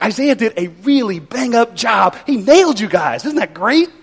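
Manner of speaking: mock-enthusiastic praise; sarcastic congratulations, ending on a lifted question. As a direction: pretend to be impressed, dripping irony. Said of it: "Did you catch his sarcasm".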